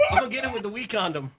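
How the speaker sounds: chuckling under the breath; laughing while talking. Real, not acted. Laughing while fighting bee.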